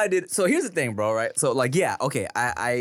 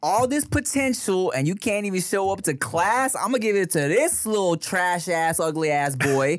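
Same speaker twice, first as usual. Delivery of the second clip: spiteful teacher; 5 semitones higher than usual. Acted. Voicing the spiteful teacher's reasoning.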